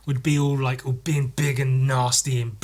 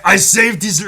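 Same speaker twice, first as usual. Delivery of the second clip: the speaker as House, false start; 7 semitones higher, 9 dB louder than usual. Shown as a demonstration. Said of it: "that's not good".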